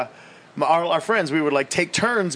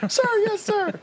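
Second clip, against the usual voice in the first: even higher shouted sir yes sir; louder recruit reply; slower than usual. Retold or imitated. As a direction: sound off harder. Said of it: "sound off like you got a pair".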